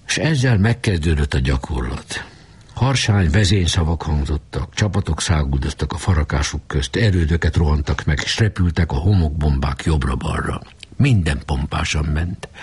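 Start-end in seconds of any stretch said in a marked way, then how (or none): none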